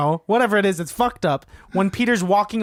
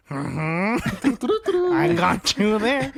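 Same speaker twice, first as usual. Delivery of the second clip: smug Harry voice; 3 semitones higher, much slower than usual. Retold or imitated. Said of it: "He's like".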